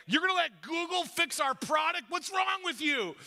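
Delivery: hammed-up angry exec; mock screaming boss. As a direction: play the furious boss yelling at John. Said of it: "the executives are screaming at John".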